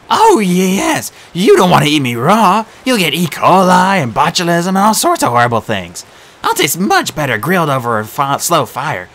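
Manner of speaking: selling himself as a meal; frantic satyr. A narrator's reading. Grover bargaining.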